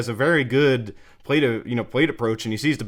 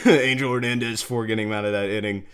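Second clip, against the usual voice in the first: laughing. Real, not acted. Laughs at thanking the umpire.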